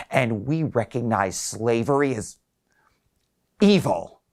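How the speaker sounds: put-on old man pushing back, rising high on the end; a hint of an indignant patient, building; lightly voiced old man, rising in protest; defensive old man. Wiley arguing back.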